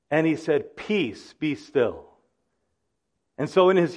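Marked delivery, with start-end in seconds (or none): 0.8-2.0 calm command. Retold or imitated. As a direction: settle the storm with a hushed word. Jesus calming the storm.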